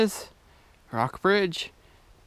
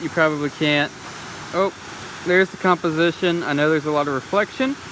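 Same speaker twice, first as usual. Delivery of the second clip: raised voice over waterfall noise; beside rushing river; 3 dB louder than usual. Real, not acted. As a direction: talk over the roar of the falls. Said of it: "I hope you can hear me over this waterfall".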